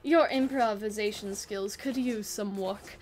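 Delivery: put-on slow, theatrical British accent; drawn-out British theater-major delivery. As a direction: put on your best posh-villain British accent, unhurried. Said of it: "that's my best, like, accent for him".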